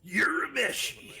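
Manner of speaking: high, loud, slow battle cry; projected anime shout. Pretend. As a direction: belt it from the bottom of your throat. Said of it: "Gotta project more from the bottom of your throat".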